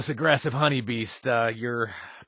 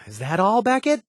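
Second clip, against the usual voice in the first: mock player voice; 8 semitones higher, 3 dB louder than usual. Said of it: "I know what you're thinking".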